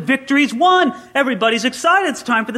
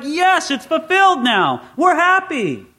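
higher, slower, jubilant cry; pumped harvest joy; 7 semitones higher, slower than usual. Retold or imitated. Pastor voices a farmer celebrating the harvest, jubilant and higher. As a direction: cheer like the harvest finally came in. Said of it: "you're pumped, you're excited".

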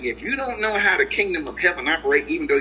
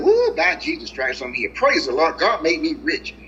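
mock excited believer. Mocks overexcited new believer.

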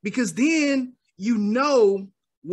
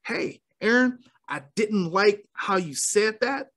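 calm, controlled confrontation; 2 semitones lower than usual. Shown as a demonstration. Addressing Aaron about how he said that, calm voice. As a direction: stay composed while raising a grievance. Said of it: "I can say a calm voice".

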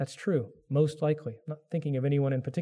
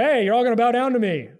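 put-on boastful young Joseph; 6 semitones higher, 6 dB louder than usual.

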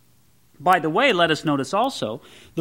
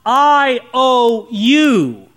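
very slow and louder, pressing every word of "I owe you"; emphatic I owe you; 4 semitones higher, 5 dB louder, much slower than usual. Shown as a demonstration. Preacher stressing giving to married couples, slow and louder. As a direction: weigh out "I owe you" slowly, leaning in. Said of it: "The emphasis is on giving".

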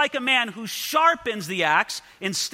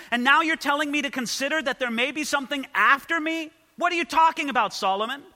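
mock-baffled pushback at the author; incredulous challenge; 5 semitones higher than usual. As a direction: question him like he's lost the plot. Preacher challenging Solomon, incredulous.

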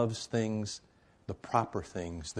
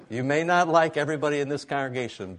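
raised, higher preacher's voice pressing the point; emphatic preaching; 6 semitones higher, 7 dB louder than usual. Real, not acted. Pastor urging the congregation to love, raised and emphatic. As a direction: lean into it and push the whole room.

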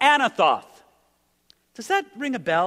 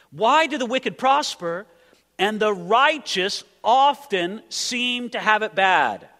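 raised, pressing repeat of why; louder question; 2 semitones higher, 3 dB louder, slower than usual. Acted.

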